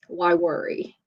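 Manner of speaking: soft, understated retold question; quietly matter-of-fact, dropped in after a pause; calm. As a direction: imitate an unruffled father's simple conclusion. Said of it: "in his very calm way".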